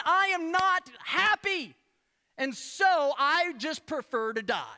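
a hint of sulky adult tantrum; whiny Jonah. Preacher acting Jonah sulking at God, petulant whine. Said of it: "he's going".

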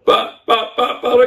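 high-pitched mock stammering objection; put-on plaintive sputter, high; whiny protest. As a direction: play the insistent child arguing back. Acts out protesting to God.

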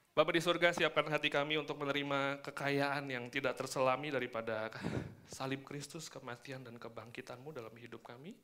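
softening prayer voice. Acted. Opening prayer.

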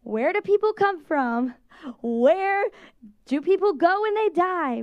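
mock child question.

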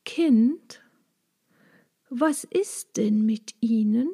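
soft, kindly dragonfly voice, almost a whisper; friendly to the frightened child; gently asking what is wrong. A narrator's reading. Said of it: "sagte ganz freundlich".

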